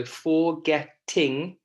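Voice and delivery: "forgetting" slow, in three parts: for-GET-ting; stressed syllable. Shown as a demonstration. Teacher shows class the spelling pattern, syllable by syllable. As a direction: slowly break up "forgetting", leaning on GET. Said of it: "it's stressed a little bit more".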